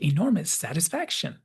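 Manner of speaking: lightly voiced pleased announcement; happy grin. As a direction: savor it with a grin. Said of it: "then this really happy grin".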